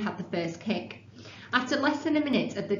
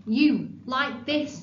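loud and slow; 4 semitones higher, 4 dB louder, much slower than usual. Acted. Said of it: "said Tom loudly".

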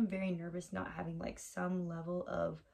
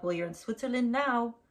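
mildly cross retort, higher and louder; lightly scolding, raised pitch; retold cross scolding; 4 semitones higher, 6 dB louder than usual. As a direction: imitate a stern local setting tourists straight. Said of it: "he was being cross with us".

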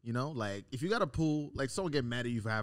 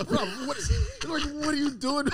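incredulous laughing quote; 12 semitones higher, 3 dB louder than usual. Retold or imitated. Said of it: "I'm like".

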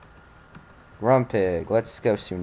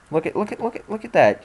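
excited squeal; 10 semitones higher than usual. Real, not acted. Gamer excited at sad creature.

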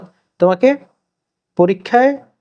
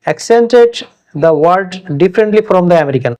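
slow dictation; much slower than usual. Shown as a demonstration. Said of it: "এখানে একটা বাক্য দেয়া আছে".

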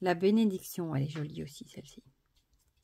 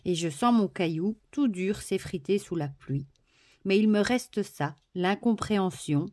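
inspirational reading; 4 dB louder than usual. Acted. Reading the card's text to viewers, heartfelt. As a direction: read it like a heartfelt affirmation. Reads booklet text over music.

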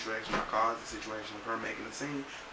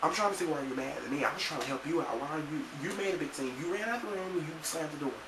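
retold exasperated retort; 4 semitones higher than usual. Answering a friend who accused him, re-enacted exasperation. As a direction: argue back, pitched higher, mock exasperation. Acted quarrel with upset friend.

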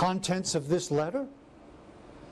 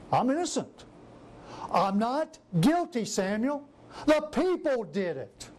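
whiny denial; 2 semitones higher than usual. Retold or imitated. Voicing Saul's whiny denial.

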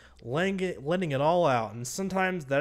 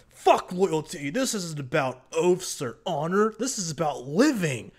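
Brienne's forceful plea. Retold or imitated. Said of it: "Brienne and Jaime talk".

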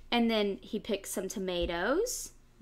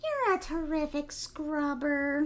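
piglet voice; 5 semitones higher than usual. Acted. Piglet voiced in read story.

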